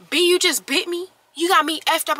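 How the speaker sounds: high-pitched indignant protest; mock outraged complaint; retold outrage. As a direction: imitate someone affronted and in disbelief. Retells his outrage at being bitten.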